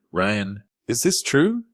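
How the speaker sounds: frightened plea to her husband; shaking voice. A narrator's reading. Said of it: "her voice shaking".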